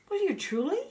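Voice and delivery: very high, eager question; excited exclaim. A narrator's reading. Hedgehog thrilled the dragon will join him, high and eager. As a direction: leap up with sudden hope. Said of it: "exclaimed Roger".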